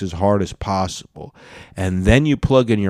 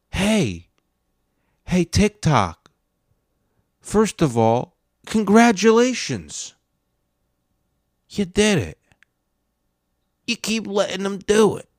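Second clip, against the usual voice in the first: sarcastic congratulations; 9 semitones higher than usual. Acted.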